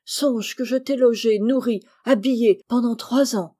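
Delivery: loud, indignant cry turning to begging; theatrical supplication; desperate pleading. A narrator's reading. Miser begs cousins for pity.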